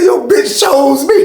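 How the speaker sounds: slow, high yelled taunt; mock shout. Retelling the jail argument, a slow mocking yell. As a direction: drag the taunt out loud. Acted quarrel quote.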